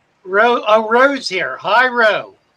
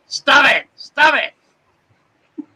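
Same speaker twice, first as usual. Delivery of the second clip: high, loud laughing cry of stop it; laughing protest; 7 semitones higher, 4 dB louder, much slower than usual. Real, not acted. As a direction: squeal it through laughter.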